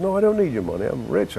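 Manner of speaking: a hint of a high old man's pleading; lightly voiced old suitor. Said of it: "I play a guy who's old".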